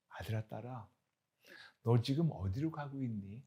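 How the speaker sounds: soft, gentle asking; tender father's question. Acted. God asking his child where he is, softly. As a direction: ask softly, like a loving father.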